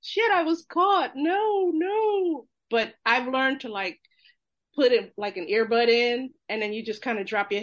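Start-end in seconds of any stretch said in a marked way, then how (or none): 0.0-2.5 high, loud, laughing panic; flustered high squeal with a laugh; caught off guard. Retold or imitated. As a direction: yelp like you've been caught. Caught eavesdropping on the bus.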